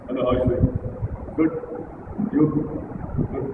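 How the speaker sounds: low, monotone greeting; unmodulated. Shown as a demonstration. Coach redoing a dull greeting for the audience, monotone. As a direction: take all the tune out of the greeting. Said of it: "Oh, I modulated".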